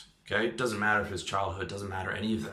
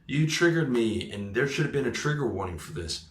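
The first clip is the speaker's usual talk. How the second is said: mock freak-out; 2 semitones higher than usual. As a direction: put on a mock outraged complaint. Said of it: "they freak out and they say".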